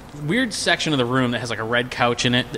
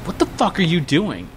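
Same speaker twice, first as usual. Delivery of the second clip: higher-pitched startled question; mock alarm; 6 semitones higher than usual. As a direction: imitate a baffled buddy. Buddy startled by drunk friend.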